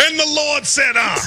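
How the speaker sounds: a light preacher's call; mock preacher. Host teasing his cohost, mock-preaching lightly. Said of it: "you sound like a black preacher".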